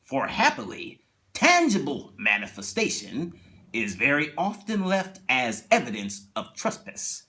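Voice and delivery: slow, measured narrator with hushed turns; lightly done Twilight Zone narrator; Rod Serling narration. Retold or imitated. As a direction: intone it like a TV host closing the episode. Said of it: "you hear Rod Serling, he says".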